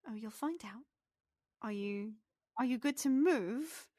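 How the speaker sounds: lilting, teasing pixie; pixie character voice. Acted. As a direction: keep a secret as a little pixie. Game master plays the pixie.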